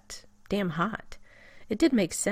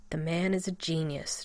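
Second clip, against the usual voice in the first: raspy. Acted. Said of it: "John rasped".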